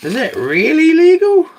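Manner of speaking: high, loud, hammed-up incredulous squeak, slowing on the second question; mock disbelief. Mocking viewers who doubt the fish is legal, hammed-up disbelief. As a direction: play the shocked doubter at full stretch.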